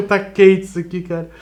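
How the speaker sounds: talking around a hot bite; hot coffee burning the mouth; mouth full of hot food. Real, not acted. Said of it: "tá pelando".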